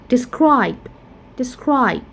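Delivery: "describe" stressed on SCRIBE; light first syllable, strong end in "describe"; "describe" as de-SCRIBE, twice; second-syllable stress. Shown as a demonstration. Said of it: "we stress at the second syllable".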